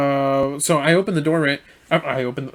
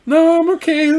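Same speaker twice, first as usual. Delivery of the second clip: much higher, louder quick no; flustered hasty refusal; 11 semitones higher, 5 dB louder than usual. Retold or imitated. Driver hurriedly turns down the customer's drink offer, flustered and high. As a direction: brush her off fast, half-panicked.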